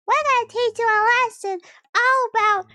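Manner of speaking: put-on kid threat. Kids threatening the character.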